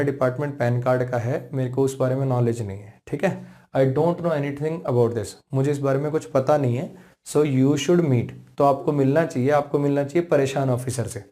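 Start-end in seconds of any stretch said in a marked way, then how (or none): 3.8-5.3 very slow, deliberate English; slow example line. Retold or imitated. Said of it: "तो मैं उसको क्या कह रहा हूँ". 7.3-8.3 very slow, deliberate; slow example line. Retold or imitated. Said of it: "तो मैं उसको क्या कह रहा हूँ".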